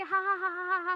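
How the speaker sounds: teasing ha ha ha of a laughing crowd; mock laughter. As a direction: ham up the crowd's mocking laughter. People mocking her at gate.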